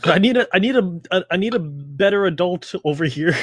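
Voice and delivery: mock concern. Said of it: "I'm like".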